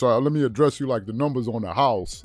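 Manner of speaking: lightly imitated Southern accent; a hint of Southern twang, poking gentle fun; Kendrick Perkins. Sports host mimicking an analyst's funny accent, light Southern impression. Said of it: "if you listen to Kendrick Perkins".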